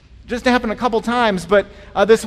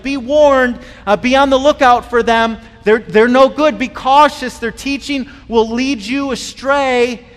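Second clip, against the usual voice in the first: urgent warning; 3 semitones higher, 6 dB louder than usual. Retold or imitated. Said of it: "He's like".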